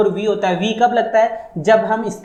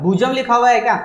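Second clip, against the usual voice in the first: भुजम लिखा हुआ है क्या asked higher, as if questioning a wrong reading; teacher querying a student's misreading in disbelief; doubtful question; 4 semitones higher than usual. Shown as a demonstration. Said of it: "sir ये तो भुजम लिखा हुआ है".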